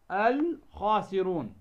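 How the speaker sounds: article's lam sounded clearly in "الخاسرون"; stretched teaching "الخاسرون", every lam heard; demonstrated lam. Shown as a demonstration. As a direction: say "الخاسرون" slowly with a distinct l before خ. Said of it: "هذه خاء".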